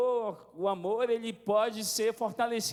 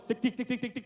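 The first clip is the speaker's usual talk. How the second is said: quick little "tic" repetitions, higher; imitated pattering footsteps; 3 semitones higher than usual. Father imitating daughters running through the house, pattering ticks. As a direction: mimic small feet running to the door.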